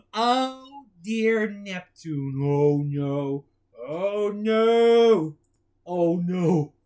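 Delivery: loud, slow wailing no's; dramatic despair. Acted. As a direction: wail in mock horror. Character despairs loudly.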